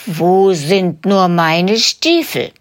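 slow, searching man's question; a man muttering for his boots, slowly. Acted. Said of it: "hört es eine Männerstimme fragen". (langsam fragende Männerstimme)

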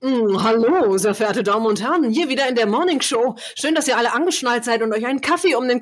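mock morning-show host greeting; hammed-up cheesy radio presenter; classic radio voice. Podcaster parodies a radio morning host, mock radio voice. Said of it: "so eine klassische Radiostimme ist für mich eigentlich so kotzwürg".

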